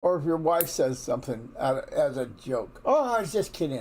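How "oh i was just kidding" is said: high, lightly acted brush-off; hammed-up "only joking" excuse; mock dismissive spouse. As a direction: laugh it off as a joke in a pitched-up voice. Spouse brushing off hurt as joke.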